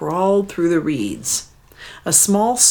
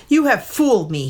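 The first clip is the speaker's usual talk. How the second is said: angry; 6 semitones higher, faster than usual. Acted. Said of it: "he said angrily".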